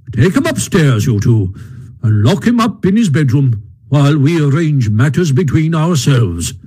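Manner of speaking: lightly voiced stern Badger; firm Badger. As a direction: lay down the law, measured.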